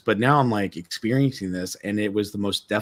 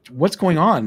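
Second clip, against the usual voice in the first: high, louder alarmed question; 8 semitones higher, 7 dB louder than usual. Retold or imitated. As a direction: call out in fright. Frightened by noise in ship.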